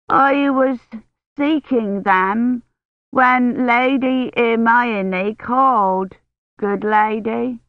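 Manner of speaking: a dim maid answering her lady at half speed; slow halting speech. A narrator's reading. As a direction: drag each word out slowly, dull-witted. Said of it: "an imbecilic slowness to Maisry's speech".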